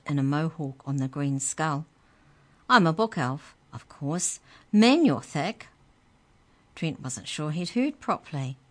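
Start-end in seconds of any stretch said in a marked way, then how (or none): 2.7-5.7 loud, high, sarcastic creature voice; high squeaky sneer. Acted. The book elf mocks Trent, squeaky and loud. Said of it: "The book's voice was high and squeaky".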